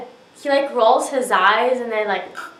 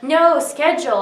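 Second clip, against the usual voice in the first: louder and higher, retelling the men insisting "No, schedule."; mock insistent correction; 6 semitones higher, 5 dB louder than usual. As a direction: bark the correction back the way the men did. Men insist on the word again.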